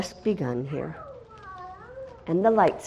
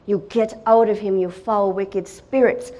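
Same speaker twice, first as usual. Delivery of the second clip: commanding rebuke. Retold or imitated. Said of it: "and I'm saying".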